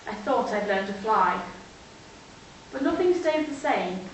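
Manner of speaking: measured verse, lifted openings and falling line ends; poem recital. Acted. Young writer reciting a poem on a fire, poem recital. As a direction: recite in short, separated phrases.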